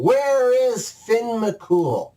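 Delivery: slow, loud, high bellow; giant shouting. Acted. Giant at the door demands Finn, bellowing slowly. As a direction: boom it out at the door. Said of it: "Benadonner starts shouting".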